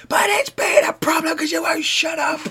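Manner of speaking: mock whiny voice. Quoting partner mockingly.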